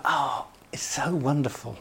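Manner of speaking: whispered, delighted sigh of a parent; a soft whisper of joy at the girls coming home; breathy delight. Retold or imitated. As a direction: hush it out like a happy sigh.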